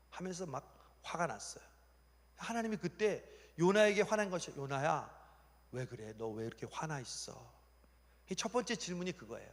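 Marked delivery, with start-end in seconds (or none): 4.6-7.5 soft, lowered, patient concern; acted tender inquiry; gentle questioning. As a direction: ask a sulking child what's wrong. God gently questions sulking Jonah.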